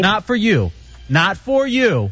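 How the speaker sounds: put-on slow, simple scolding as to a toddler; talking to a baby. Host keeping the beer from a colleague, baby-talk scolding. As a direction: tell a baby no, drawing the words out. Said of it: "Like you're a baby".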